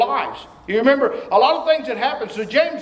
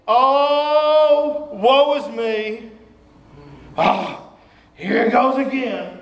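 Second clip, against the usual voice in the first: mock self-pity; much slower than usual. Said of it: "it doesn't mean".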